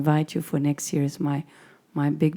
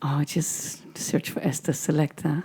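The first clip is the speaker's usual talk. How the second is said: laughing whisper; 7 dB quieter than usual. Real, not acted. Laughing aside.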